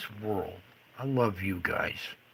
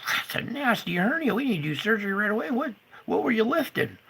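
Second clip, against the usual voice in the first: higher, quick, fussy doctor voice; mock doctor; 10 semitones higher than usual. Retelling the doctor visit, mocking doctor voice. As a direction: mimic the doctor rushing to surgery. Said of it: "He said".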